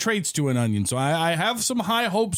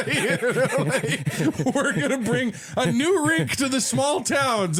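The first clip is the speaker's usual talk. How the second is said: laughing; 6 semitones higher, slower than usual. Real, not acted. Laughing while speaking.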